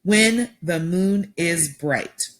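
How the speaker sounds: slow "Such a sweet slumber for me", every syllable spaced out; broken into syllables. Shown as a demonstration. Teacher breaking a poem line into syllables, slowly. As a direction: tap out "slumber" as two beats. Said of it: "Five syllables".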